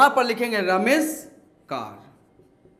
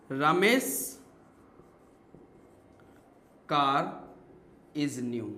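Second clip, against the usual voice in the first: slow dictation, word by word; 7 semitones lower, 5 dB quieter, much slower than usual. Shown as a demonstration. Teacher reads the example sentence slowly to students. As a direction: read each word out slowly with pauses. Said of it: "दूसरा statement है".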